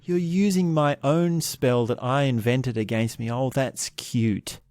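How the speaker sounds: a touch of condescending mockery, slowing at the end; understated sneer from a wiser, stronger wizard; mocking put-down. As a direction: lightly play the smug teacher belittling his student. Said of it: "he's sort of just laughing. He's just putting him down".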